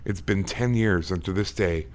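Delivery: steady storyteller reading aloud; story narration. Acted. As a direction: read the ghost story to listeners. Host reads listener ghost story.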